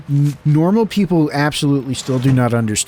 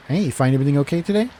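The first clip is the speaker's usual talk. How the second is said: flat rote cashier; faster than usual. Pretend. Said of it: "vocal interactions".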